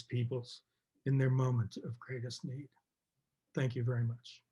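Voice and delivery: real emotion, softening toward the end; moved, voice dropping away; emotional. Real, not acted. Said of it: "Sorry for getting emotional there".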